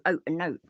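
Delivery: "oat" and "note" with a long open oh; Midlands oat and note. Shown as a demonstration. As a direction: say "oat" and "note" the local way, not like a Yorkshireman. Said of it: "We do".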